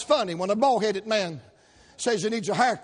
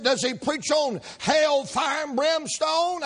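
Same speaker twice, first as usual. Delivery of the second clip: hammed-up nosy hairdresser; 5 semitones higher, slower than usual. Hairdresser grilling the customer about his preacher, high and prying. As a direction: needle him like a shocked gossip.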